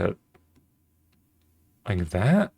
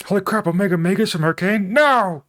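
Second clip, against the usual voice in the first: excited surprise; 11 semitones higher, 5 dB louder than usual. Real, not acted. Spots Arcane boots in reference.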